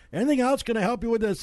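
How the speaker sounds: high mock shopkeeper voice; imitating the owner. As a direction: pipe up like the lady behind the register.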